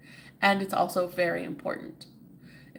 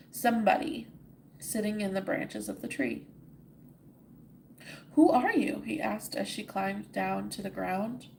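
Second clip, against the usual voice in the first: steady storybook reading; story narration. A narrator's reading. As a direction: read it like a bedtime tale. Reads the story aloud.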